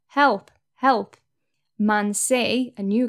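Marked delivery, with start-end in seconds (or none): 0.1-1.2 a loud, higher retold cry of help, help; shouting for help. Trapped man under the rock calls for help, shouting. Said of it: "before Man A starts shouting".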